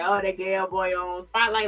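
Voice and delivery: put-on Southern accent. Vlogger quoting an excited young wrestler on screen, light Southern accent. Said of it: "that deep Southern accent".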